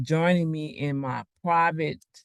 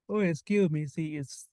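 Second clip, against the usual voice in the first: yawning; 4 dB quieter than usual. Real, not acted. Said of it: "I don't know why I'm yawning".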